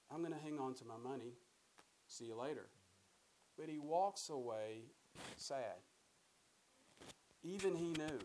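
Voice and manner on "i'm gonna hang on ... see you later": quick, casual brush-off; breezy shrug-off. Retold or imitated. Ruler brushing off Jesus, quick and casual. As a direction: toss it off lightly and leave.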